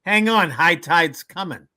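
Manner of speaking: a hint of the brassy Bronx girl; brash Bronx girl. Bronx girl's punchline to the man, lightly voiced and brash. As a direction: deliver the punchline with mild Bronx sass. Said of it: "She goes".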